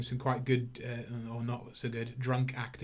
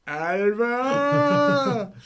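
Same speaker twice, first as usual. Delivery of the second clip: long, much higher and louder hammed-up call; mock yell; 12 semitones higher, 8 dB louder than usual. Reviewer imitating Cage shouting for his assistant Alva, hammed-up yell. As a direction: bellow the assistant's name like an unhinged boss.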